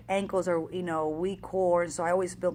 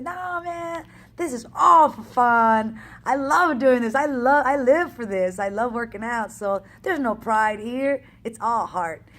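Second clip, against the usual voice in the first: 1 passionate; 2 semitones higher, 5 dB louder than usual. Retold or imitated. Answering her ego passionately.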